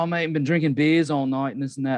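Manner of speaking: lightly imitated Australian drinking mate; Australian friend. Friend saying he drank all night, imitated Australian accent. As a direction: retell it with a touch of Aussie. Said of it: "I know a guy from Australia".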